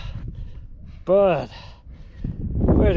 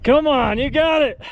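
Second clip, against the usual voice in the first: upbeat cheer, raised pitch; encouraging cheer; 5 semitones higher than usual. Real, not acted. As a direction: urge him on to the top. Cheering climber at the finish.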